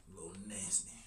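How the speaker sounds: sly gossiping whisper. Pretend. Teasing gossip about lip sore.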